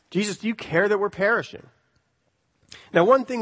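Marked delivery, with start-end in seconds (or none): 0.1-1.7 pointed, accusing retort; sarcastic question. Retold or imitated. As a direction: throw the question back as a rebuke. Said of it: "It's a sarcastic remark".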